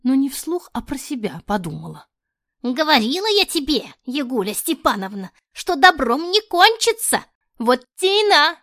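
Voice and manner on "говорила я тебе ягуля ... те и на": put-on grumbling old woman.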